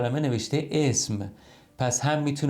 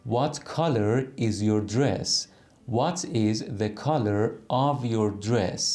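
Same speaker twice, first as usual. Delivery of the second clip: slow demo; much slower than usual. Shown as a demonstration. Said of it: "هر دوتاش از نظر گرامری درسته".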